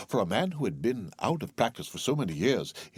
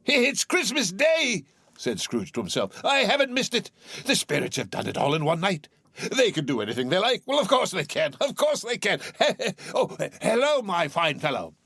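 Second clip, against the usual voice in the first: put-on high, joyful old man; delighted Scrooge; 9 semitones higher than usual. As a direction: marvel to yourself.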